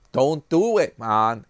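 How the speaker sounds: loud playful self-scolding; mock scolding. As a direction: tell yourself off loudly. Scolding himself loudly.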